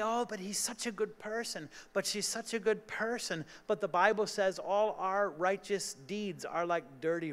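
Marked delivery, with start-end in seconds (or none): 0.0-3.4 softly imitating a pleading excuse; lightly mock people defending good folks; mock protest. Preacher mimicking the congregation's excuse, soft mock plea. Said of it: "We say".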